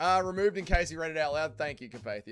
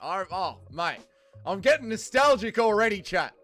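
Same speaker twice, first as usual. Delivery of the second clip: hammed-up Australian bloke, a bit louder; Aussie bloke; 4 dB louder than usual. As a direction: play it up as a classic Australian fella. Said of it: "Classic Aussie fella".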